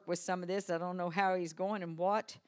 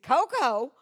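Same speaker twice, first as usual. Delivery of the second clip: incredulous Coco; 5 semitones higher, 11 dB louder than usual. Retold or imitated. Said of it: "And he said".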